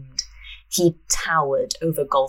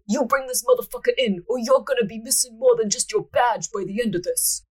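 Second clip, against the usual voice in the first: mild menace; 6 semitones higher than usual. Acted. Chief threatens inspector.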